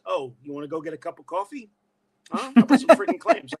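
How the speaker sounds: put-on thick old-school Brooklyn accent. Shown as a demonstration. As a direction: talk like a Brooklyn kid. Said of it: "I would talk like this".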